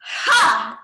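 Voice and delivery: forceful exhale. Shown as a demonstration. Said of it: "one more".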